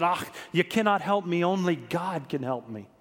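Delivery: lightly imitated Scottish accent; a hint of Scottish in a retold quote; Scottish brogue. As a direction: repeat her refusal with a touch of Scottish brogue. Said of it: "in her Scottish brogue".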